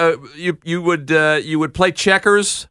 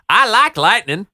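put-on Southern accent; 3 semitones higher, slower than usual. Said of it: "and you say".

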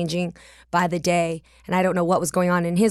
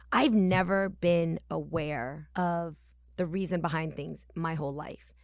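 whisper; 2 semitones lower, 7 dB quieter than usual. Real, not acted.

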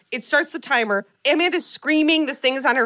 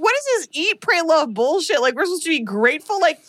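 exasperated rant; 4 semitones higher than usual. Real, not acted. Ranting at the puppet.

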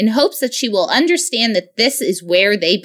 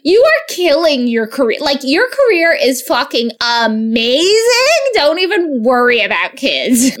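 gushing reassurance; 4 semitones higher than usual. Retold or imitated. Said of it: "I was like".

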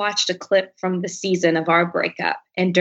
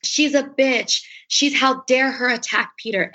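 higher-pitched mimicked critics; mock outrage; 5 semitones higher than usual. Voicing Instagram critics who dogged her, mock outrage. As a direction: imitate scandalized commenters attacking.

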